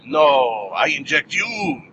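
hammed-up bad Russian accent; horrible Russian accent. Russian woman turns the syringe on Hit Girl, bad Russian accent. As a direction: play it as a badly faked Russian accent. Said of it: "That was a horrible, horrible Ar-, Russian accent".

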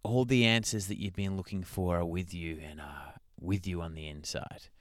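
low, hushed reading of a quote; solemn quote reading. Acted. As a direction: intone it like profound wisdom, fading softly. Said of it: "they post the exact same quote".

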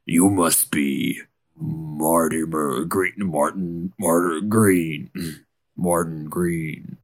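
slow, easy Southern drawl. Acted. Hunter greets the deputy, slow Southern drawl. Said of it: "do the southern drawl".

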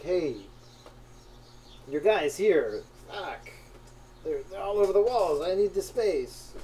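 bad Italian boss impression; lightly done Italian accent. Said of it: "my Italian accent is terrible".

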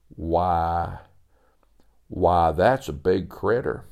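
impressed at the size of it; hushed Sebastian. Acted.

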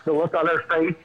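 trying not to laugh; giggling through the words; stifled giggles. Real, not acted. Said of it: "I'm trying not to laugh so hard".

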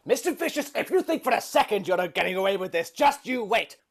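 grandpa threat. Acted. In-character threat to villain.

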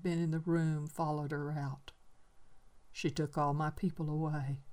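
soft, grieving recollection; old man mourning who left; quiet sadness. Acted. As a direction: let it fade into loss. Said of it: "he said quietly and sadly".

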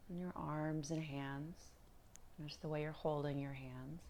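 calm, unhurried meditation guide with long pauses; guided meditation. Acted. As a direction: ease them gently through body and breath, leaving space between phrases.

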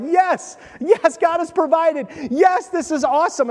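excited farmer. Retold or imitated. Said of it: "He's gotta be out there being like".

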